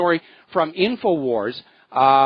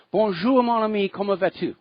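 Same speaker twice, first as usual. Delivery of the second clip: put-on playful French with an American accent; a cheery, hammy Bonjour to the caller; French greeting; 4 semitones higher than usual. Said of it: "laughing at my French accent".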